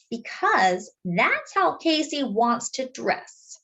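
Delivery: slow, gentle reassurance; calm mother. Acted. Mama calmly answering Jessie about Casey's clothes, slow and gentle. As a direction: explain it slowly and kindly.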